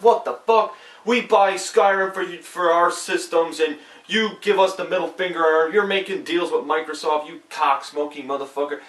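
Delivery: high-pitched imitation of outraged customers; mock angry fans. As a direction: rant like furious console owners, starting high and settling. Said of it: "owners are so mad at Bethesda".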